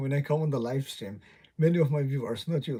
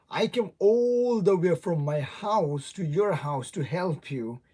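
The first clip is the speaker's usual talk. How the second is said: acted exasperated protest; 3 semitones higher, slower than usual. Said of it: "you're gonna say that".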